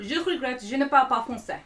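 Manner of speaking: put-on clumsy stab at a French accent; bad French accent. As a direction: attempt French in a badly off accent. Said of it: "my French accent was horrible".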